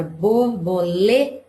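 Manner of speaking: "borboleta" in syllables, LE held and stressed. Shown as a demonstration. Teacher showing students the stressed syllable, stress on LE. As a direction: lean on LE in "borboleta", then drop "ta". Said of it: "é mais forte".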